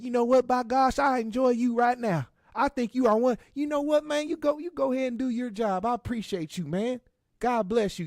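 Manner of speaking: high, loud, hammed-up televangelist gushing; Joel's preacher voice. Joel gushing over the plumber in a high, loud preacher voice. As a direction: gush like a showy pastor thanking the plumber.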